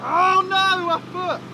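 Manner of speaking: high startled yelp; surprised cry. Real, not acted. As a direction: cry out in shock. Watching the crash replay.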